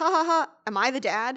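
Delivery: play-acted jokey, laughing delivery. Retelling how the boyfriend asked if he was the dad: imitating someone joking around. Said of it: "trying to make it a joke".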